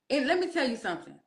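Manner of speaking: quick, firm auntie lecture; a light auntie scolding. Acted. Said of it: "I'm talking like an auntie".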